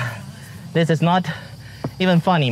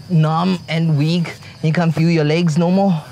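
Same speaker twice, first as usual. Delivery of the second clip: out of breath. Real, not acted. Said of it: "your legs feels jelly".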